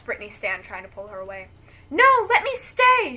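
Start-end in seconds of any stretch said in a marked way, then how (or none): 1.9-3.2 high, loud desperate plea; shout. Acted. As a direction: scream it out, begging to stay. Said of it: "she shouts".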